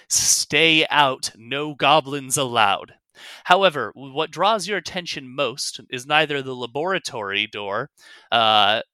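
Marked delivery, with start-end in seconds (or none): 0.1-2.9 sign read aloud. Acted. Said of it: "the southern door reads".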